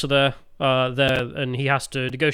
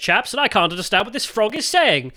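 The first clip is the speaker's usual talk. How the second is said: British airman; 5 semitones higher than usual. Acted. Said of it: "the British airmen sp-, speak".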